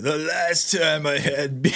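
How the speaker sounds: lightly slurred tipsy impression; mock tipsy slur on a quote; drunk-sounding Kamala Harris. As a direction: imitate someone a little drunk. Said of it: "the way she sounds it".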